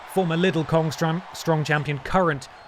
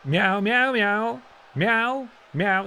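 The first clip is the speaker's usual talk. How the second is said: higher, playful meowing for the cat; cat meows; 4 semitones higher, much slower than usual. Pretend. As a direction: mew like a chatty cat. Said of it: "What's Pippa got to say?".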